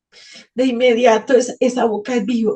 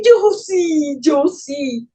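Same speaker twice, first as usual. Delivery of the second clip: loud, high insistence, then fading; shouting yes; 3 semitones higher, 3 dB louder, much slower than usual. Retold or imitated. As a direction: shout it back eagerly. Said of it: "Y yo grité". (grito insistente)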